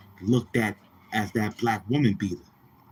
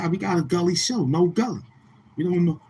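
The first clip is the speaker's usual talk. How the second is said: higher, quick mocking voice; mock crew voice; 6 semitones higher than usual. Mocking the Gully crew, quick high jeering voice. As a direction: rattle it off like a clueless fan.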